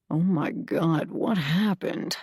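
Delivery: a slow, mildly gruff, lost "what happened"; a touch of groggy confusion, drawn out; gruff and bewildered. Acted. Zach woken by bad news, slow and mildly bewildered. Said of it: "He sounds gruff and bewildered".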